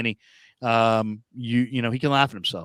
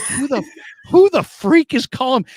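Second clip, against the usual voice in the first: mild startle; 9 semitones higher, 4 dB louder than usual. Retold or imitated. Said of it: "And I'm like".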